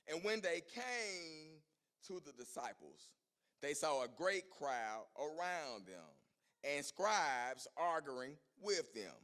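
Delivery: slow, measured Bible reading; scripture reading. Acted. Preacher reading Matthew to the church: slow measured reading. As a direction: read the verses deliberately.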